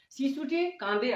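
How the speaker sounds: drawn-out example sentence at half speed; slow model reading. Shown as a demonstration. Teacher reads the Bengali example to beginner students, slowly. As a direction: read it out slowly for learners.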